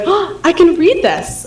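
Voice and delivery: put-on high, slow, lit-up girl's voice; imitating a child who suddenly can read; delighted discovery. Teacher quoting her student's delighted discovery, high and slow. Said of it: "lit up and was like".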